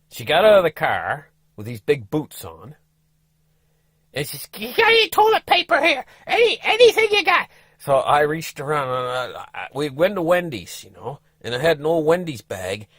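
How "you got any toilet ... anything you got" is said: high, pleading wife voice; wife asking urgently, pitched high. Retold or imitated. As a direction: beg for toilet paper. Wife begging for toilet paper.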